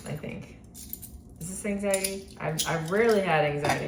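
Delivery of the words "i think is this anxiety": whisper. Real, not acted. Whispered trailing doubt.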